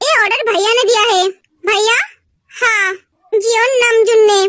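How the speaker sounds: low, subdued replies; downcast. Acted. Names brother behind the order. (उदास, धीमे सुर में)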